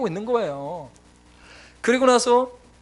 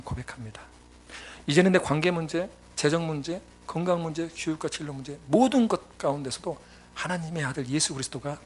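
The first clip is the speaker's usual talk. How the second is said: earnest prayer; 3 semitones lower, 3 dB quieter than usual. Retold or imitated. Pastor praying his confession to God, soft and sincere. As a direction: pray quietly and sincerely.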